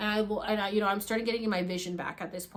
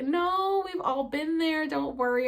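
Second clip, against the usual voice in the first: higher, drawn-out soothing "no"; mock reassuring; 7 semitones higher, slower than usual. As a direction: soothe her as the kindly group. Group reassures her after apology.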